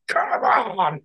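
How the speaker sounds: high, drawn-out victory roar, mimicked; triumphant cheer. Retelling beating the level second attempt, mock triumphant roar. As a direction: relive the win with a stretched-out cheer.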